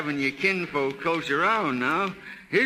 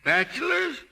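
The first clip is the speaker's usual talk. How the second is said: jumps much higher in disbelief; startled disbelief; 9 semitones higher than usual. Acted. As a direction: that can't be, ask it sharply. Father disbelieves where dog lay.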